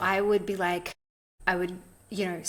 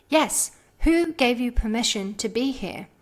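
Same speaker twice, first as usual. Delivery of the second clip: insistent question; 4 semitones higher, 5 dB louder than usual. Retold or imitated. Mentor repeating question.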